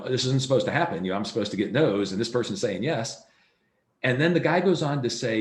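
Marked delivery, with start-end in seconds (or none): 0.0-2.1 louder, stunned disbelief of a new agent; amazed it actually worked; retold astonishment; blown away. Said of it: "She's kind of blown away going".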